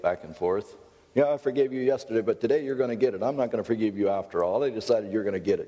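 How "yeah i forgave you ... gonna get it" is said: fast, petulant change of heart; immature God. Acted. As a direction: rattle it off like a fickle, vindictive ruler. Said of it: "if God would be immature".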